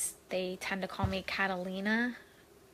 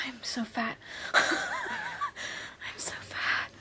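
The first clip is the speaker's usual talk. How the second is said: laughing at herself; 3 dB quieter, much slower than usual. Real, not acted.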